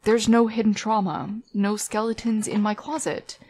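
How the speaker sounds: crackly distorted audio; fuzzy, storm-hit recording; fuzz distortion. Real, not acted. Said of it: "I'm sorry about the distortion here".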